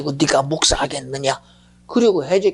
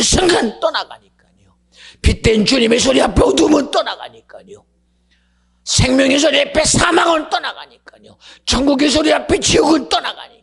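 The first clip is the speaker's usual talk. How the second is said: higher, shouted sermon climax; thundering preacher declaration; full-force preaching; 10 semitones higher, 5 dB louder than usual. Acted. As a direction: proclaim it to the congregation.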